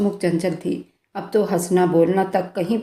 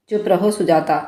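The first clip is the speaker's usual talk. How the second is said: mild roar. Acted. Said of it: "वह दहाड़ता हुआ उसके ऊपर चिल्लाकर बोला था".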